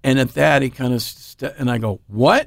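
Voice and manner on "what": sharp questioning rise; acted double-take at startling news; stunned disbelief. Storyteller acts his stunned reaction.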